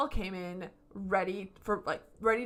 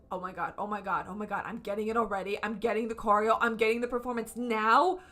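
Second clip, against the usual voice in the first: building excitement; faster than usual. Retold or imitated. Retold excitement building as song starts.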